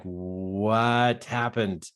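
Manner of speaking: very slow, stretched-out baffled question; dazed confusion. Retold or imitated. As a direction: drag it out as if dazed. Retelling dazed confusion while walking.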